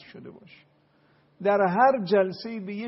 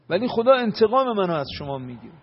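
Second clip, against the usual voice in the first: loud, raised warning of God's revenge; solemn warning; 5 semitones higher, 10 dB louder than usual. Retold or imitated. Hussein addressing the enemy army: loud solemn warning. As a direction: proclaim it like a threat from the battlefield. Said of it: "امام حسین فرمود".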